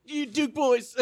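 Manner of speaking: high cackling sheriff impression; Roscoe P. Coltrane. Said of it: "Roscoe P. Coltrane".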